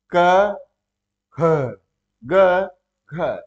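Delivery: each consonant said loudly and alone; spaced letters. Shown as a demonstration. Teacher demonstrates letters, loud and spaced. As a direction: sound out ka, kha, ga, gha one by one. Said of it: "भाई देख लीजिए".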